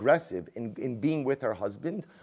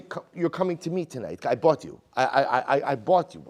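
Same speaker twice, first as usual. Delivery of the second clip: louder, pushy demand from Leah; verbally aggressive; 6 dB louder than usual. Retold or imitated. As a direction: make it a bold, pushy demand. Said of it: "Verbally aggressive way".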